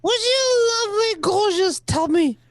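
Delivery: a light French accent, playing the charmer; lightly hammed-up French accent for wooing the ladies; a hint of a French lover's accent; mock French accent. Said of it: "in the whispers of my French accent".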